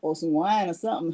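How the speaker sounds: breathless and laughing; puffing between words; out of breath. Real, not acted. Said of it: "I am out of breath".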